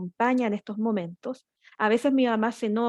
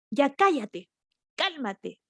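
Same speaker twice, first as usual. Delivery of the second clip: adulto gritando; 3 semitones higher, slower than usual. Retold or imitated. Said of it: "gritando o descontrolado".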